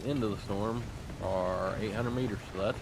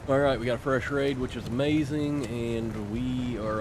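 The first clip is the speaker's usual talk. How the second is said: shouting over wind; 4 semitones higher, 6 dB louder than usual. Real, not acted. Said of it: "The wind is so loud".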